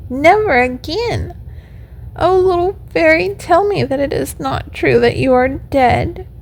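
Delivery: high, plaintive little puppet voice; acted tearful pleading, pitched well up; weeping puppet lament. A narrator's reading. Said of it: "as he wept".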